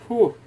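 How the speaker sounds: puffing whew; out of breath exhale. Real, not acted. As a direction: blow out a winded breath. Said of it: "I'm out of breath now".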